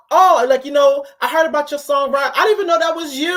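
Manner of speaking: put-on high, sing-song baby talk to an adult; mocking baby voice. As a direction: coo at her like a toddler. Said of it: "the tone".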